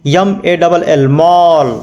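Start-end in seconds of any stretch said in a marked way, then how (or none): 1.1-1.7 "मॉल" with a long, stretched ऑ; drawn-out vowel. Shown as a demonstration. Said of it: "थोड़ा घींच के बोलेंगे". ("मॉल" को थोड़ा खींच के बोलें)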